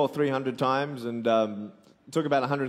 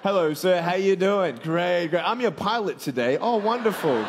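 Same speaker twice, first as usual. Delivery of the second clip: a bright, higher pilot's hello to passengers; mock pilot greeting; 6 semitones higher, 4 dB louder than usual. Pretend pilot greets boarding passengers, chirpy and higher. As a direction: play the friendly pilot, pitched up.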